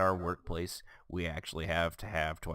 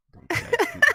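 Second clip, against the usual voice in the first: high, loud mock plea; 13 dB louder than usual. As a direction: squeal it like an outraged plea.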